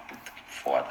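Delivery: hushed curse under the breath; whispered curse. Retold or imitated. Anesthetist stuck with a difficult vein, cursing to himself in a whisper. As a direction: mutter the swear almost voicelessly. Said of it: "E aí você fala".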